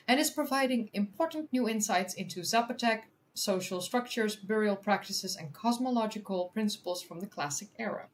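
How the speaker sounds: measured news-article reading; article read-aloud. Real, not acted. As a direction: read it out clearly for an audience.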